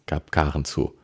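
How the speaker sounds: plain reading voice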